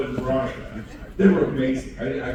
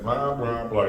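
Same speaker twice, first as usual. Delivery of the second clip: boring drone; 6 dB louder, slower than usual. Retold or imitated. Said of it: "You're boring".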